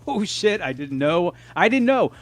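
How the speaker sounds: retold astonished outburst; retold surprise. Retells surprise at a cameo.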